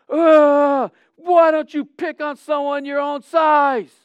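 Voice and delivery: loud, high yelling at the goalie; retold yell. Believer in bleachers yells at goalie, loud high voice. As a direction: shout him down from the bleachers. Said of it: "and he yells".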